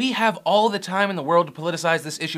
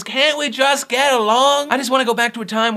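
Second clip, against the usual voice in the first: big pleading cry, stretched out; mock plea; 7 semitones higher, 6 dB louder than usual. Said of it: "my official response to this is".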